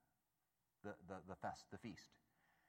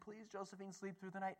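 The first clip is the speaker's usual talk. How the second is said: soft prayer; 5 semitones higher, 7 dB quieter than usual. Retold or imitated. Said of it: "I was praying".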